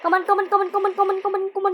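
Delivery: will it to work, frantic; urgent pleading. Real, not acted. Urging game on tensely.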